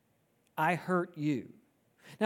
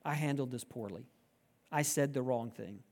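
sincere apology; 4 semitones lower than usual. Retold or imitated. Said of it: "coming to you and saying".

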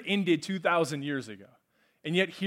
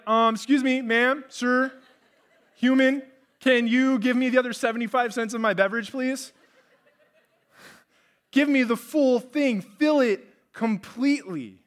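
higher, louder mock-polite complaint; indignant customer; 6 semitones higher, 5 dB louder than usual. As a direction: demand the full drink you paid for. Acts short-changed drive-thru customer.

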